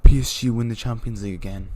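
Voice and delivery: loud, emphatic announcement; excited result call. Real, not acted. Fan calling the Champions League winners, excited announcement. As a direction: proclaim the winners loudly.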